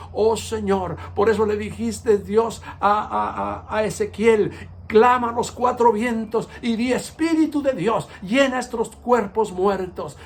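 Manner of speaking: earnest prayer, rising toward the call to the Spirit; fervent prayer. Acted. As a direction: pray it from the heart, building in fervor. Closing prayer to God.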